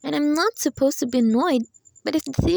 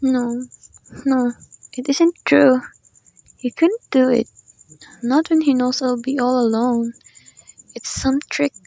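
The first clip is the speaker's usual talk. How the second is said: louder, desperate protest; distraught denial; 5 dB louder than usual. Acted. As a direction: refuse to believe it aloud. Denial after telegram.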